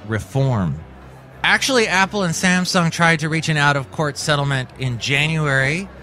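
measured newscaster delivery with lifted phrase openings; news read. Acted. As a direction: read it out like a tech news bulletin.

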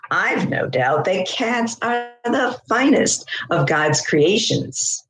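lightly voiced proud cat; a hint of a preening cat, lilting and deliberate; self-satisfied cat. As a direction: read as a cat pleased with itself. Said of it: "this is in the voice of the cat".

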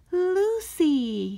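high, loud call of the dog's name; excited cry. A narrator's reading. Boy spotting his lost dog, high excited call. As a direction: call out to her, amazed and relieved. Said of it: "he said".

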